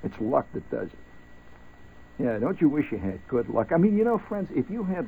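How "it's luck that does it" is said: slow breathy confiding whisper; stage whisper. Acted. Host tells listeners the secret of success, hushed slow whisper. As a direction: let them in on the secret, whispered slowly.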